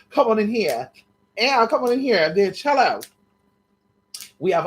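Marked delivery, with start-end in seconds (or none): 0.1-3.0 calling out. Pretend. Calling imaginary men in.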